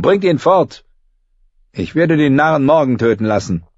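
put-on young king, cold and cruel; cruel boy king. A narrator's reading. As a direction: give the order like a spoilt tyrant.

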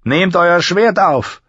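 high, drawn-out command; called-out order. A narrator's reading. Master-at-arms tells the fallen boy to rearm, calling out. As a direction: call it out slowly, pitched well up. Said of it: "rief er".

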